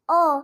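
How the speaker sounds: ओ as a short, clear "oh"; open-mouthed O sound. Shown as a demonstration. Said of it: "ओ को हम क्या पढ़ेंगे?". (मुँह खोलकर ओ की ध्वनि)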